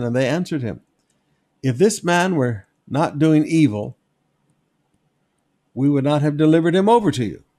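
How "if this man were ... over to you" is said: a hint of loud, defensive accusers; mock indignant accusers. Preacher voicing the accusers to Pilate, mock indignant. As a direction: throw the accusation back, a touch louder.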